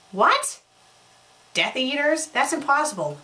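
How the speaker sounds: a high, loud gasp of disbelief; shocked. Acted. Snape hears the Teletubbies are Death Eaters, shocked. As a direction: jump up in pitch, can't believe it.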